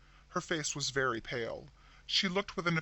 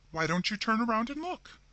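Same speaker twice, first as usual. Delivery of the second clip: wondering, aggrieved; 8 semitones higher, 4 dB louder than usual. A narrator's reading. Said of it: "in a wondering and somewhat aggrieved way".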